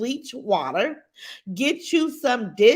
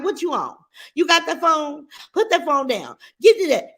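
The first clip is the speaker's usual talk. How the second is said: imitating a mother going off, rising to a yell on the last words; half-hammered scolding of a little girl over her phone; mock scolding; 4 semitones higher, 4 dB louder than usual. Mother snapping at her daughter to drop the phone, mock angry yell. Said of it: "she went off on a little girl".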